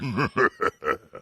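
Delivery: mock eerie cackle, rippling and falling; imitated bizarre laughter. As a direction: put on a weird laugh for the ghost story. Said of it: "Basically just like that".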